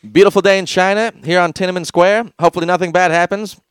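loud, upbeat announcer; chirpy doom-blind reporter; cheery announcer voice. Acted. Mock newscaster bit.

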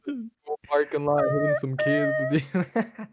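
high, loud hyped bro yell; frat bro whoop. Acted. Hyped reckless joke.

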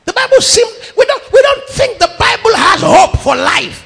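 high, loud preaching shout; full-force preaching. Real, not acted. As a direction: preach it out to the hall.

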